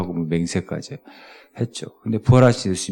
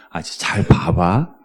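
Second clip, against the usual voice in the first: louder, exasperated teacher; raised teacher voice; 2 semitones higher, 4 dB louder than usual. Retold or imitated. Teacher losing patience with pupil over banana sums, louder and exasperated. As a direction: voice climbing with frustration. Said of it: "선생님 목소리가 이제 좀 높아지는 거지".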